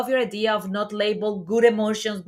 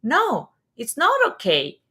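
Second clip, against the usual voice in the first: mild firm doctor; 5 semitones higher, 5 dB louder than usual. Retold or imitated. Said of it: "the doctor looked at her and said".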